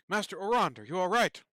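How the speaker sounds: guard calling out loud and high. Acted. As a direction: shout across the room to your master. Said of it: "and calls out".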